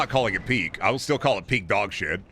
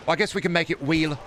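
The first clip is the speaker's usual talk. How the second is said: meek developer; 6 semitones higher than usual. Acted. Acted developer caving in.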